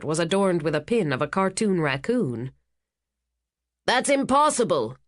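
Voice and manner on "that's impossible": a sharp shout, pitched much higher. A narrator's reading. Stern older woman shouting her disbelief. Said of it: "shouted one woman".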